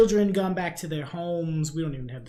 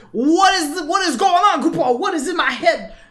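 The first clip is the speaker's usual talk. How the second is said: very high, loud, squeaky ranting voice; 13 semitones higher, 8 dB louder than usual. Narrating the scene as Grimo rants at the top of his voice: Grimo's little Moogle voice. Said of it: "ranting at the top of his little Moogle voice".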